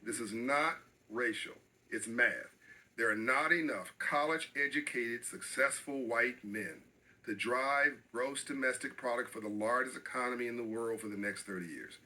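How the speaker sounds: slow, deliberate restatement, each word weighed; repeating it slowly so no one twists his words; said again slowly. Shown as a demonstration. Slow, deliberate repeat to the host. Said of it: "I'm gonna say it again slowly".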